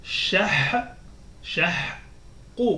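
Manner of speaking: "Shah" with a closed final consonant, no vowel after; sukun syllables. Shown as a demonstration. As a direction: show the sukun stop on "Shah". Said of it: "avec le soukoun".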